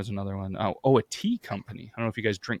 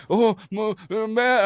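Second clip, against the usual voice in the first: caught off guard; 12 semitones higher, 5 dB louder, slower than usual. Retold or imitated. Caught friend stammering to girlfriend.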